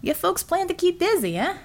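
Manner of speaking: lightly voiced heavy-set American worker; a hint of a blunt construction man; easygoing American workman, mildly teasing; gruff union man. A narrator's reading. Hensel voiced.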